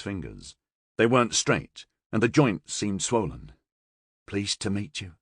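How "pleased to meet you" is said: softer, mumbled greeting. Acted. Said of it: "he mumbled".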